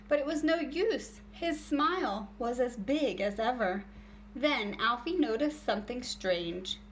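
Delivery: lively storybook read-aloud voice; reading to children. A narrator's reading. Teacher reading a story to her class, animated read-aloud. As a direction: read it out like a picture book for kids.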